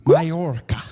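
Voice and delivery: loud first stab at "Majorca"; Spanish pronunciation attempt. Shown as a demonstration. Comedian trying to say the island's name, Spanish pronunciation. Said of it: "I can do that better".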